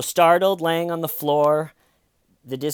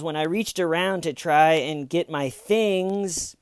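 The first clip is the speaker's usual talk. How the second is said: imitating a badly faked distraught caller, drawn out; higher, slow mock-distraught retelling; pretend distraught; 4 semitones higher than usual. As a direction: put on distress for the dispatcher, dragging the words. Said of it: "the tone of pretending to be distraught".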